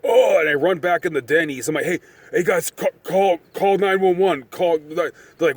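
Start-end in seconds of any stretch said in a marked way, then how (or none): 1.9-4.8 high, loud frantic plea to call the police; urgent, near-shouting alarm; panicked yelling. Retold or imitated. At a Denny's, begging the guys to call 911, frantic loud plea.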